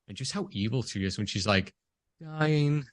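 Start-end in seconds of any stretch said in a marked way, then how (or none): 2.2-2.8 lightly blasé quoted line; mildly offhand mock-villain delivery; imitated blasé villain. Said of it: "she's just so blasé about it".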